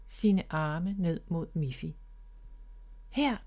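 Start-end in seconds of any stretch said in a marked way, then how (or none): 3.1-3.4 higher call from above. Acted. Bob calls down from the branch to Miffy, calling out. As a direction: reach down and call to her. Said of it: "råbte han til hende".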